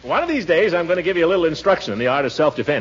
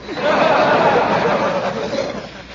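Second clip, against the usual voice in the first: chuckle; 14 semitones higher than usual. Acted. Uncle laughing at his own beefsteak joke, high rolling chuckle.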